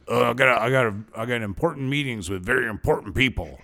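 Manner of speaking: lightly voiced pompous boss; a hint of a self-important boss, barely changed; impersonation of Mike. Host mocks his co-host's boss talk, lightly voiced impression. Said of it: "That's my impersonation of you".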